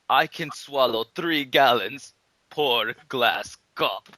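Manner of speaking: slow, loud mock boast; hammed-up slow Russian brag; slow boastful Russian. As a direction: drag it out like a proud drinker.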